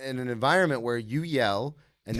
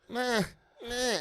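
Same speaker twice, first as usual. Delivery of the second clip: high, soft "meh"; small high-pitched mock grunt; mimicked strained grunt; 9 semitones higher, 6 dB quieter than usual. Mimicking other lifters in the rack, high soft grunts.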